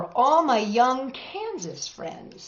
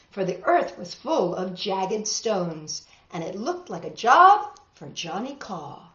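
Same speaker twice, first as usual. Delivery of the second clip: rhythmic read-aloud storytelling; story narration. A narrator's reading. Teacher reading a tall tale to the class, rhythmic narration. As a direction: read the rhymes with a lilt for kids.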